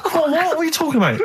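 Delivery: high, laughing what are you on about; incredulous laugh through the words; cracking up in disbelief. Real, not acted. Laughing disbelief at Rockbusters return.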